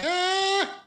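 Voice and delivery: long, very high-pitched "ah"; hammed-up squeak of a man held in place; high squeal. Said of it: "So he's kinda like".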